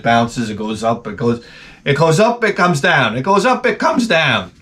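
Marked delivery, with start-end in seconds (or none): 1.8-4.5 rising singsong repetition; mock exasperation. Explaining a simple ride, mock exasperated singsong. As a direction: hammer out the up-and-down, hammed-up.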